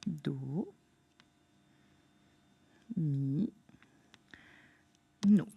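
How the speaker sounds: «Do, mi, no» très lent, plus grave, longues pauses entre syllabes; étire «Do, mi, no» lentement, voix plus basse; syllabes lentes et basses. Shown as a demonstration. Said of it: "Trois syllabes". (syllabation lente et grave)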